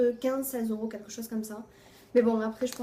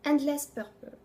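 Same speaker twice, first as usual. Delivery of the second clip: French accent; 4 semitones higher than usual. Real, not acted. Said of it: "Non, j'ai pas l'accent anglais, je sais".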